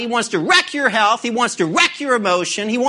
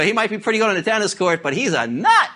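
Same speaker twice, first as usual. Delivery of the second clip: laughing; faster than usual. Retold or imitated. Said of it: "The guy go".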